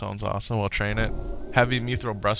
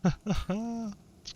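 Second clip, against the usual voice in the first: hype greeting; 10 semitones higher, 5 dB quieter than usual. Real, not acted. Greeting viewers.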